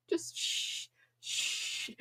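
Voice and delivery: unvoiced shh; shushing. Real, not acted. Streamer shushing the chat, unvoiced. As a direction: hush them with a breathy shh.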